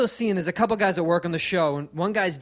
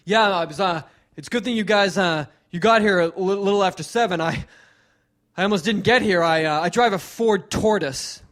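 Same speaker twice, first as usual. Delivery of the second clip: imitating hack comic. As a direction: push every corny line hoping for a laugh. Imitating warm-up guy's car jokes.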